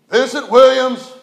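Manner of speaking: loud, slow courtroom call of the name; magistrate calling a name. Retold or imitated. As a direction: call the defendant's name slowly across the courtroom. Magistrate calls defendant in court.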